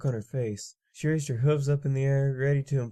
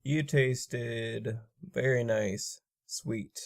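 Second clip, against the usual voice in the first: exasperated sigh; much slower than usual. Acted. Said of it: "sighed in exasperation".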